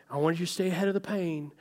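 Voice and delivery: soft, gentle reassurance; kind voice. Retold or imitated. Doctor tenderly urging patient to take meds, softly. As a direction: say it like a caring friend. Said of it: "just such a nice voice".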